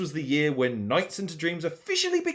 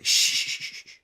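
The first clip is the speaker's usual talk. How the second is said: shushing. Acted. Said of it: "I want you to listen closely".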